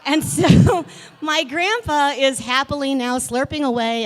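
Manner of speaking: laughing while telling it. Real, not acted. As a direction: laugh through the words.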